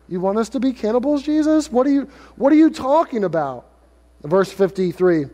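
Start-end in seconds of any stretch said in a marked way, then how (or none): 0.1-3.7 indignant, baffled listener; incredulous crowd. Acted. Crowd demanding an answer from Jesus in disbelief. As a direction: voice jumping up high in disbelief on Jesus. Jews object to Jesus' words.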